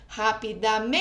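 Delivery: "Rapidamente" with MEN held very long, as if calling it; calling out the word. Shown as a demonstration. Teacher calling the word to find its stress, long-held MEN in "Rapidamente". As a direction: call "Rapidamente", stretching out MEEEN. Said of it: "chamar pela palavrinha, né? Pela sílaba tônica".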